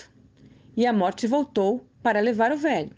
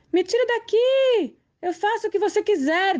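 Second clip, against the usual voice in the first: desperate plea; 11 semitones higher than usual. A narrator's reading. Death desperate to be freed, shrieking high. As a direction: scream and promise anything. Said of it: "disse a morte desesperada".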